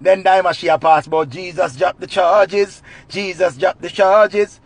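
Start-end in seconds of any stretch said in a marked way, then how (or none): 1.3-4.6 slow emphatic. Acted.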